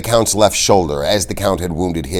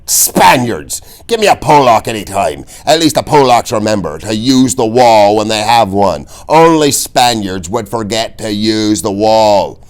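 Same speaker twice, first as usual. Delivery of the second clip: high, loud exasperated yelling; screaming teacher; 3 semitones higher, 6 dB louder than usual. A narrator's reading. Old fencing teacher yelling at Inigo, loud and high. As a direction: bark at the dumb pupil. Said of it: "McPherson was screaming again".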